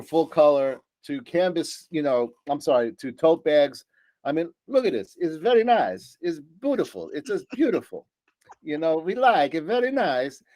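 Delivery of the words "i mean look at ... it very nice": hammed-up admiration, higher pitched; playful put-on voice. Presenter clowning while showing off tote bags, playful put-on voice. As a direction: play at being mock-impressed by the goods.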